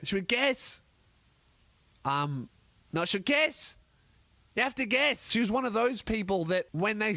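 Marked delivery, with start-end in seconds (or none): 0.3-5.3 high, insistent coaxing; pushy waitress. Retold or imitated. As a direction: needle them to guess. Waitress pushing for a guess.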